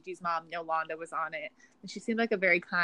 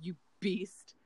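mock reality yell; 7 dB louder, much slower than usual. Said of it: "for that exchange".

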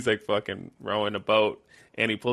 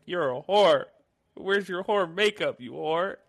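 hammed-up high-pitched mirror rant; mock rant; 9 semitones higher, 3 dB louder than usual. Retelling Peter ranting at himself, high mock shout. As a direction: yell at yourself, high and wild.

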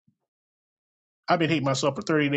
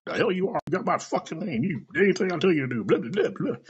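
raised, higher mock dad berating son; imitating angry dad; 6 semitones higher than usual. Son retelling dad scolding him, higher mock angry dad. Dad voiced yelling in story.

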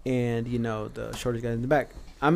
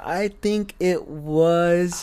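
imitating a nervous trainee; 4 semitones higher, 4 dB louder, much slower than usual.

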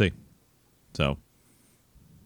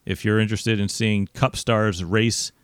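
promo voice. Pretend. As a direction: sell the race like a big promo. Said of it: "I'm just doing my promo voice".

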